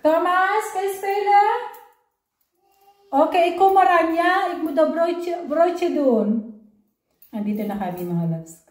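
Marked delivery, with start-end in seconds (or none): 0.0-1.4 high singsong question to a little one. Real, not acted. Calling to the child in her care. 3.1-6.6 loud high-pitched caregiver talk. Real, not acted. Talking to the child in her care.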